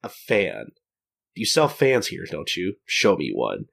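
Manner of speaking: playfully dramatic demand, dropping low at the end; mock dramatic. Gin asking the shopkeeper for a fan, mock dramatic. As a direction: put on mild gravity, ending very low. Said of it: "dramatic expression on his face".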